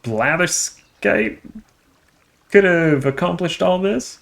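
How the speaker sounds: villain voice. Acted.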